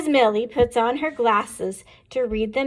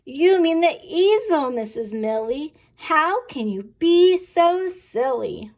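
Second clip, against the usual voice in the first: put-on teasing kids' question; 5 semitones higher, 3 dB louder than usual. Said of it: "we ask".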